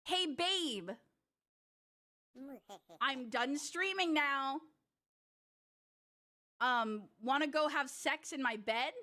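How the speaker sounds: lightly put-on seductive offstream voice; slow, casual come-on to a partner; impression of herself off stream. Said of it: "here's an impression of me not streaming".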